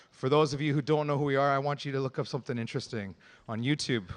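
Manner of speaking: fast talking. Real, not acted. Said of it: "talk like an auctioneer".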